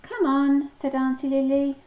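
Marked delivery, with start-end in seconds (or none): 0.0-0.7 bright call, higher pitch and louder; rally the little ones along. A narrator's reading. Auntie Lily urges the ducklings to set off, rallying call.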